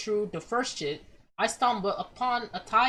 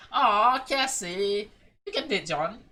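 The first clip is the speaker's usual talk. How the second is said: teasing coo; 3 dB louder than usual. Real, not acted. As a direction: coo it at her mockingly.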